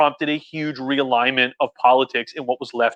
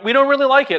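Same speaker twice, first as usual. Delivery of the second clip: timid mock complaint; 11 semitones higher than usual. Voicing reluctant Arab subjects.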